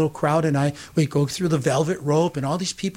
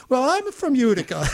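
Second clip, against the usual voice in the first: high, delighted exclamation; animated mock owner's voice; imitated restaurant owner; 9 semitones higher than usual. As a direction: retell an amazed coincidence, nearly laughing. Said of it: "And he goes".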